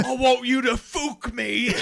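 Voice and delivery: high, slow mock woman's voice, laughing; feminine voice.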